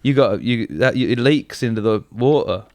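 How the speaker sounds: lightly voiced older British workmate; mild mock warning in an older man's voice; impression of Martin. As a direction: imitate a fussy British man, only lightly put on. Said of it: "I start doing an impression of Martin".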